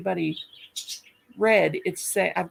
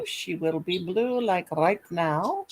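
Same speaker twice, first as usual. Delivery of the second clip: slow, lightly voiced vampire; slower than usual. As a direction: drag the words out like a vampire. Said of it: "in my vampire voice".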